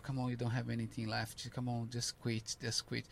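tempting devil. Retold or imitated. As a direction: murmur it like the devil on your shoulder. Devil tempting in your head.

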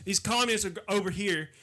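riled Southern redneck holding forth. Acted. Continuing the redneck character.

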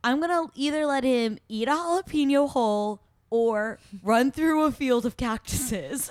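lightly hammed-up geeky guy; mock nerdy guy. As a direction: play the goofy nerd with his silly plan. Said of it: "the nerdy guy was like".

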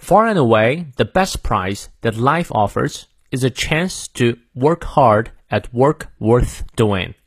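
slow, measured American accent with clear r's; American pronunciation. Shown as a demonstration. Teacher reads for learners to repeat, American accent. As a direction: model it slowly in American English, stressing key words. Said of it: "美式发音，我们来念两遍".

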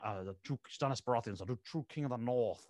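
lightly voiced stern king; a hint of a solemn king; mild mock Stannis impression; Stannis Baratheon voice. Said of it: "the Onion Knight".

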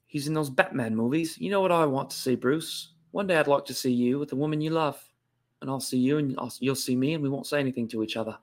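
lightly voiced Cockney elder actor; understated London butler impression; Michael Caine. Host playing the butler speaking to Bruce, restrained Cockney impression. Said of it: "I think of Michael Caine".

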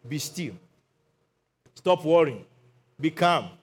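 softened, settling command; calm reassurance. Retold or imitated. Jesus calming his worried disciples, calm reassurance. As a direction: soothe them with low-key short phrases. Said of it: "Calm down".

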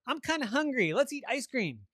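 high, playful talking-bed voice. Acted. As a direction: pitch it up as a chummy bed proposing fun. Bed suggests fun to Avery.

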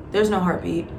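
lightly stern, matter-of-fact delivery of bad news; a hint of a stern older doctor. Older doctor tells patient the news, mildly stern. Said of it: "in a really stern voice".

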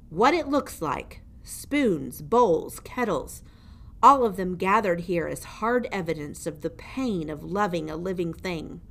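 put-on menacing old jailer. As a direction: lean over the prisoner and gloat. Gregory explains the pile.

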